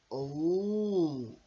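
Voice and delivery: high tiny bee voices; a chorus of curious little bees. Acted. Little bees react to the new pupil, high and tiny. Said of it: "said the little bees".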